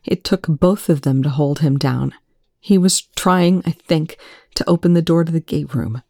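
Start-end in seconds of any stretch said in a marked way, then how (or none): 2.6-6.0 voice cracking. Acted. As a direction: voice breaking with emotion. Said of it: "Eli's voice cracked".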